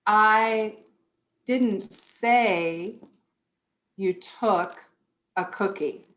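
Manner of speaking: I, didn't, say, you, took, a cookie each set apart by long pauses; slow, word by word. Shown as a demonstration. Teacher showing parents how inflection shifts meaning, word by word. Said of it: "Do you see how inflection just changes the meaning".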